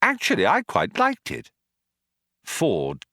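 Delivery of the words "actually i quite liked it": much higher, cheery Arthur; bright. Acted. Arthur brightly tells the Vogon he liked the poem. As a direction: chirp it up brightly. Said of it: "Arthur said brightly".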